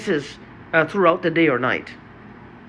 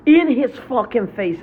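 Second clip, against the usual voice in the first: slow, heavy, higher angry emphasis; 5 semitones higher, 4 dB louder, slower than usual. Real, not acted. Venting about the older man, slow angry repetition. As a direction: lean into each word with real rage. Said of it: "Sorry I'm so angry".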